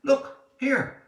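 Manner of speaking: high, loud excited call; shouted call. Acted. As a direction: call out to show the find. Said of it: "someone shouted".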